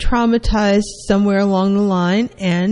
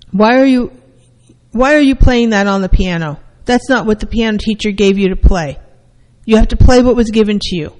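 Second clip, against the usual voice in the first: stern parent scolding, louder, faster at the end; 4 dB louder, faster than usual. Retold or imitated. Parent scolding a child at the piano, stern and louder. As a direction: scold the child for not playing the set piece.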